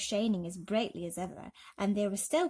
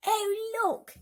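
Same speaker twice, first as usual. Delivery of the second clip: excited exclaim; 14 semitones higher, 6 dB louder than usual. A narrator's reading. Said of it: "shouted the ladybird".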